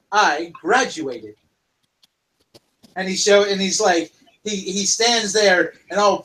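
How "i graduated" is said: proud graduate. Acted. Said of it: "He goes".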